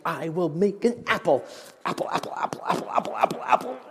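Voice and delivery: straining to push out apples; a tree forcing itself to make fruit. Pretend. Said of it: "this tree is just like".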